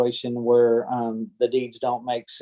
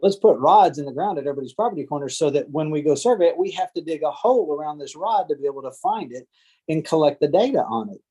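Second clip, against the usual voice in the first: mock inventor of surveying; 3 semitones higher than usual. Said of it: "I'm not the one that said".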